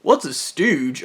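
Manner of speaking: slow repeat of her question, falling flat at the end; incredulous echo. Retold or imitated. He slowly repeats her question back, incredulous. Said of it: "And I was".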